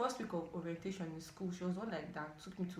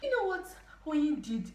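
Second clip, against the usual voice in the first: gossipy squeal; 8 semitones higher, 8 dB louder than usual. Retold or imitated. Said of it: "She was like".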